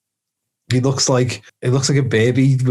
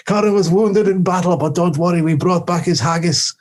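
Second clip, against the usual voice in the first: higher-pitched parody of a film Scot; mock Highlander; 5 semitones higher than usual. Dougal reports Connor's battle wound, mock character voice. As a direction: play the messenger from battle, pitched up.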